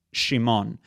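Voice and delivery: "Shimon" opening on a sh sound; Hebrew pronunciation. Shown as a demonstration. Lecturer showing the proper Hebrew name, "Shimon" with sh. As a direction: say "Shimon" in two syllables, starting with sh. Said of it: "Simeon in Hebrew is properly n-, pronounced".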